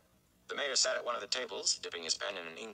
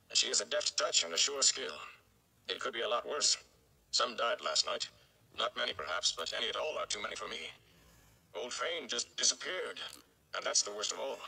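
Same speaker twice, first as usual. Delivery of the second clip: gleeman comforting. Acted. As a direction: reassure the boy, a bit theatrical. Tom the gleeman comforts Rand.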